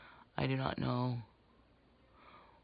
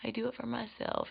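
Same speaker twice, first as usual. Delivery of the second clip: higher-pitched imitation of other women; mimicking everybody; 8 semitones higher, 4 dB quieter than usual. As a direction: put on a higher voice to quote what everyone says. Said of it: "everybody always is like".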